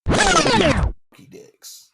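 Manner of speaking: very high, loud and stretched out; squeaky mock voice. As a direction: squeal the name slowly as a joke. Jokey exaggerated name.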